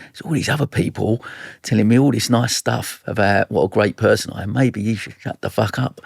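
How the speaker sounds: lightly voiced inner heckler; inner critic. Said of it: "maybe your inner voice starts going".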